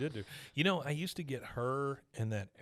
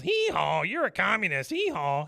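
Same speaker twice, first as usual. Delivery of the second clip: donkey bray voice; 6 semitones higher, 5 dB louder than usual. Retold or imitated. Donkey puppet braying.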